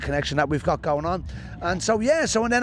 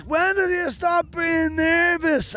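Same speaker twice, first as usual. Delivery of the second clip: high, slow, wide-eyed asking; drawn-out hopeful question; earnest rookie question; 13 semitones higher, much slower than usual. Retold or imitated. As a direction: ask it like a nervous beginner looking up to them. Comedian asking veterans a question.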